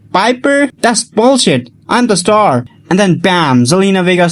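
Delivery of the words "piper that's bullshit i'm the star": high-pitched outraged imitation, no added volume; retold indignant squeal, pitched way up; mock shriek.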